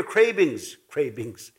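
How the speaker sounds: cravings said as craybings with an Ojibwe accent. Real, not acted. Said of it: "That's my Ojibwe that's coming out".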